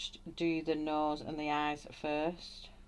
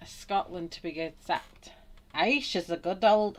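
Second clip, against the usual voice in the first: attempted Scottish slipping into Irish; 2 semitones higher, 6 dB louder than usual. Painter attempting a Scottish line about someone, slightly Irish-sounding accent. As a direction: try Scottish and land in Irish. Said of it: "I was gonna say it in Irish then".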